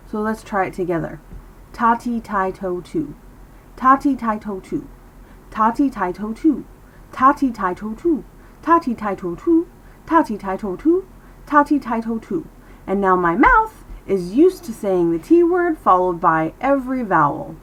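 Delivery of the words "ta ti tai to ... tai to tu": syllable drill gathering speed; faster and faster. Shown as a demonstration. Teacher drills T with every vowel, speeding up steadily. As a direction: rattle off the chant, quicker each round. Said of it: "you get faster and faster".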